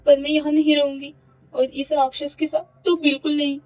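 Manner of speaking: frantic Avni. Acted. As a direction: despair spilling out. Avni frantic alone in room.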